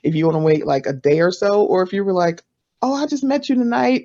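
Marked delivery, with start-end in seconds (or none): 2.8-4.0 lightly acted greeting, pitched up; higher-voiced, mock chatty opener; friendly follow-up. Podcaster messaging someone just met, lightly acted friendly.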